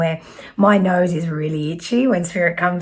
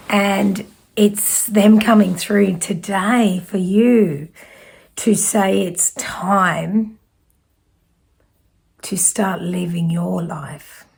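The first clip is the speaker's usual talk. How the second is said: slow, with long dramatic pauses, the last words whispered; hushed, slow reveal; slower than usual. Real, not acted. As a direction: let each phrase land, then drop to a whisper. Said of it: "the dramatic pause".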